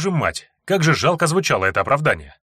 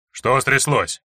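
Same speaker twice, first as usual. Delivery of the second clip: спокойно; much slower than usual. Acted. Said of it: "Спокойный голос Серёги".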